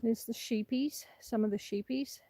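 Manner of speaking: hushed so the sheep stay calm; soft whisper near the animals; wildlife watching whisper. Real, not acted. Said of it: "I'm whispering so I don't scare the sheep off".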